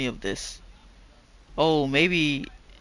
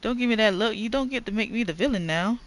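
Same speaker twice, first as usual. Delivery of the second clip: a touch higher, defiant; defensive wife; 8 semitones higher, 3 dB louder than usual. Acted. Wife snapping back at Paul, a lightly raised defiant voice. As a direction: refuse to be the villain, lightly voiced.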